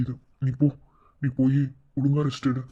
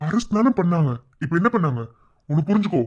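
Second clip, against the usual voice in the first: raised, higher voice pressing the point; insistent reasoning; 5 semitones higher, 4 dB louder than usual. Acted. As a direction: make them understand, firmly and louder. Insistently calming a crying relative. (அழுத்திச் சொல்லும் குரலில்)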